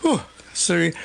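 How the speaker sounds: breathless, catching breath; puffing after rushing. Real, not acted. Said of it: "I'm a little out of breath".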